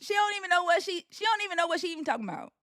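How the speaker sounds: high, quick model Southern accent. Shown as a demonstration. Host correcting the Australian's try, high quick Southern accent. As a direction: show how the Southern accent really goes. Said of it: "just talk like me".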